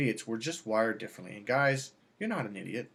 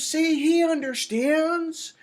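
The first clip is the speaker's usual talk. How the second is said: much higher, slow, louder triumphant woman; mock smug woman; 7 dB louder, much slower than usual. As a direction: gloat slowly in a high voice.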